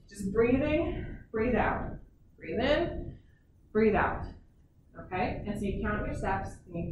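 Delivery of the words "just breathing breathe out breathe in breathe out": slow guided breathing cues; breathing instructions. Shown as a demonstration. Coach guiding child's breaths, calm guided cues. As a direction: pace someone's breath gently. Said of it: "walking and breathing".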